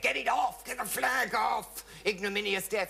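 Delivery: hammed-up indignant vicar; shouted order. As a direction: yell at them to strip the flag. Vicar orders the flag removed.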